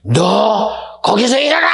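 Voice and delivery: drawn-out, high shouted command; Peter. Acted. Peter commanding the lame man to rise, shouting. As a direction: cry out the order at full force, stretching it. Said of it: "베드로가 말합니다".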